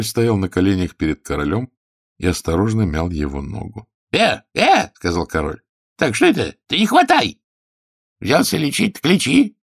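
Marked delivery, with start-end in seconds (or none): 4.1-9.6 high, loud capricious king; whiny king. Acted. King inspecting the healer's knees and teeth, high and loud. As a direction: play a petty tyrant poking at his healer.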